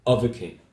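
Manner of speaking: "of a king" as a final separate group; phrasal grouping. Shown as a demonstration. Teacher showing grouped words, "of a king" as the last chunk. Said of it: "falling intonation".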